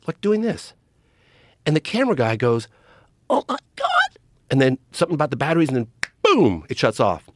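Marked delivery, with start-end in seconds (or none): 3.3-3.9 much higher, breathless disbelief; awed gasp. Retold or imitated. Cameraman stunned by the glowing disc above, awed and high. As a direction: gasp it out like you can't believe your eyes.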